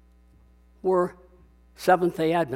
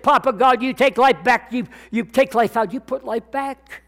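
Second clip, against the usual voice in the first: loud raised pleading prayer to Papa God; fervent prayer; 5 semitones higher, 3 dB louder than usual. Retold or imitated. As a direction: cry out to God for the child's life. Elder prays over dead baby.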